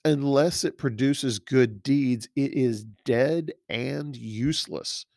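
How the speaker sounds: slow, stressing unless and dead; deliberate reading. Shown as a demonstration. Preacher reads the verse slowly to the church, stressing dead. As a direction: lean on dead. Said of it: "Next sentence".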